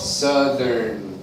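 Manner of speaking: "Southern." said with lips barely moving; "Southern." with minimal lip movement; lips still. Shown as a demonstration. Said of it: "try not to move anything".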